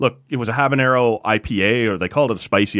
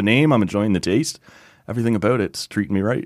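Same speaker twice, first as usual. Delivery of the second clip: smiling. Real, not acted. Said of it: "we can all hear the smile on your face".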